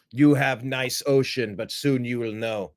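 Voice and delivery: a mild take on Zelensky's menacing English; mock Zelensky accent. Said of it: "I took that as an absolute threat".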